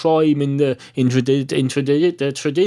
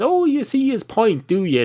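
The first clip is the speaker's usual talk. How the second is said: mock sarcasm; 10 semitones higher than usual. Mocking reply in joke.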